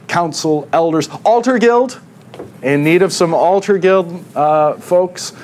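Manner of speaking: playful plug. Real, not acted.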